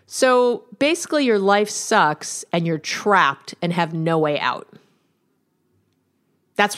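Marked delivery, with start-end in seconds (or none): 0.1-4.7 provocative reflection. Shown as a demonstration. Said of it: "What I would do is say".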